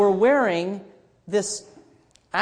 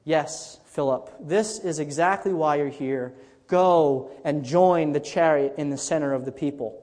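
slightly calmer, lower divine voice; lightly voiced Holy Spirit; 5 semitones lower than usual. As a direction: answer as God's Spirit, lower and assured. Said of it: "the Holy Spirit says to him".

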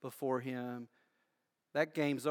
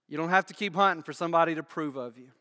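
fast, louder and higher, pressing forward; urgent fast preaching; 3 semitones higher, 9 dB louder, faster than usual. Acted. Pastor freeing the congregation from striving, fast urgent preaching. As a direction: rattle it off with rising urgency.

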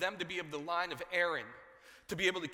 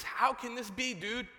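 disbelieving; 7 semitones higher, slower than usual. Acted. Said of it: "I'm sure that's how he talked".

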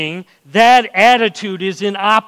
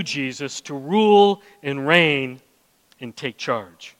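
humble prayer. Retold or imitated. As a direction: pray in surrender, letting the voice sink. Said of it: "Humble is".

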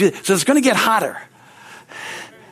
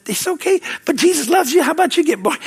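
put-on comforting a child; 8 semitones higher than usual. Voices himself comforting crying child.

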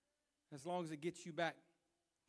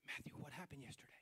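prying coworker; 2 semitones lower, 11 dB quieter than usual. Retold or imitated. Coworker prying the next day.

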